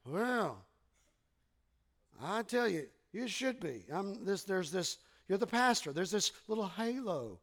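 quiet, mildly dismissive imagined reply; little disdain. Retold or imitated. Congregant thinks pastor has it easy, a little disdainful. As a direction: imitate a listener's faint scorn. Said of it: "comes back with a little disdain".

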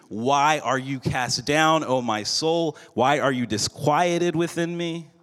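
understated anguished cry to God. Retold or imitated. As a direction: plead the psalm with some anguish. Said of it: "David cries out in Psalm forty-two".

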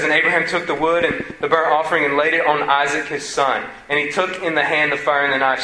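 solemn scripture read. Acted. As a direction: read the verses with weight. Reads scripture aloud.

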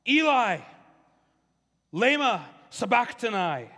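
loud, slow anguished cry of Eli, Eli. Retold or imitated. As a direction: call out to heaven in a drawn-out loud cry. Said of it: "Jesus cried out in a loud voice".

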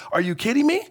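Are you kidding me? climbing high, half-laughing at the absurdity; incredulous. Retold or imitated. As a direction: throw it up high, can't believe it. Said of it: "Habakkuk is like".

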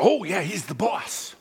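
worker's reply. Retold or imitated.

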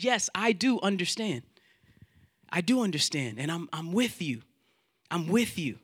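softening, quietly settling comfort; gentle reassurance. Acted. God answering someone who feels nobody understands, gently reassuring. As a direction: reassure tenderly, easing down in volume.

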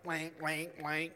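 repeated sound effect for flashing light; flashing neon imitation. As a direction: mimic a blinking sign in even beats. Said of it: "flashing red neon light".

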